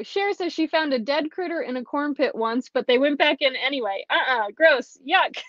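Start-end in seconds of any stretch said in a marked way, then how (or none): 4.1-5.4 real disgust. Real, not acted. Reacting to dead critter story.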